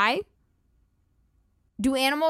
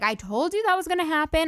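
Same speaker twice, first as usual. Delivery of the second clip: smug know-it-all; 7 semitones higher, faster than usual. Retold or imitated. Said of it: "when people are like".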